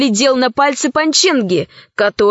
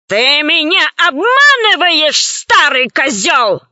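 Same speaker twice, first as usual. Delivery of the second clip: angry accusation; 3 semitones higher than usual. Acted. Pirate chief berates the cowering old scientist, angry. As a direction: snap it at him, then slow the insult.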